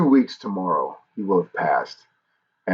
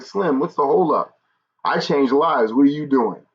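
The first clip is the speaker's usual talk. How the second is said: higher-pitched mock telling-off; a livelier take on father's challenge; imitated flamboyant scolding; 5 semitones higher than usual. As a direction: play dad's prodding, less nicely. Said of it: "he would say it a lot nicer".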